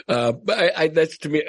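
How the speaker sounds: laughing while talking; chuckling. Real, not acted. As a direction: chuckle through the words. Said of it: "I'm chuckling only 'cause it's ridiculous".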